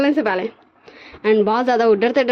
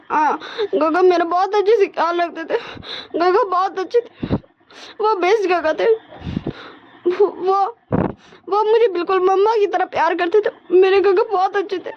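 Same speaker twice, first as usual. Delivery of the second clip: tearful; 6 semitones higher than usual. Acted. Crying about his big brother.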